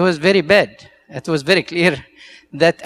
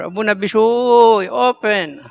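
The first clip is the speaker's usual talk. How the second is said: raised, higher voice calling a name through the door; retold elder knocking and calling the young priest, raised voice; 5 semitones higher, 4 dB louder than usual. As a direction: call out to him from the hallway, lightly imitated. Metropolitan knocks on his door.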